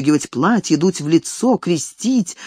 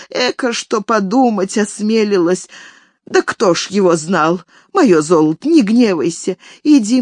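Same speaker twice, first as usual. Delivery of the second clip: put-on pleading old nanny. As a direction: beg forgiveness like a guilty nanny. Nanny begging forgiveness.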